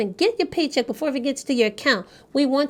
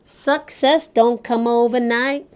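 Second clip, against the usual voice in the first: put-on Jamaican accent; 3 dB louder, slower than usual. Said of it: "We tried our best with my Jamaican accent".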